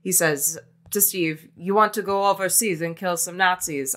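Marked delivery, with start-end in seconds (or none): 1.6-3.9 weak German accent attempt; a faint hint of German accent. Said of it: "I tried doing a German accent there".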